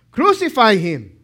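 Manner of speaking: mild loud shout; crowd shout. Acted. Crowd shouting at Pilate, a mild loud shout. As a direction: call out for his death. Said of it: "kept shouting all the more".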